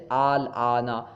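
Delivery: "آل آنا" opening on one long aa; hamza changed (ibdal). Shown as a demonstration. Teacher gives students ibdal, "آل آنا" with lengthened opening. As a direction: turn the second hamza of "آل آنا" into a long vowel. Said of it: "حرف سے بدل کر پڑھنا".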